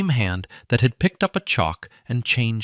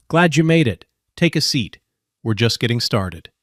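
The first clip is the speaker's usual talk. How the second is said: friendly, smiling welcome, bit louder; 4 dB louder than usual. Acted. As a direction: greet her kindly with a smile. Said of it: "and smiled".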